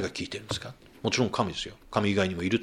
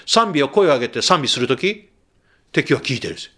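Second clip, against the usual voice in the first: louder, pressing sermon delivery, punching each 声を上げて; fervent preaching; 5 semitones higher, 7 dB louder than usual. Acted. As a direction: drive it home from the pulpit. Preaching at full force. (説教壇から力強く訴える)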